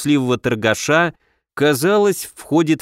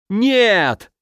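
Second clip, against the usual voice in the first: a high, pained cry of no; anguished cry; 7 semitones higher than usual. Acted. The merchant cries out in pain at the thought, anguished and high. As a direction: voice cracking with pain. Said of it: "В голосе Ислава было столько боли".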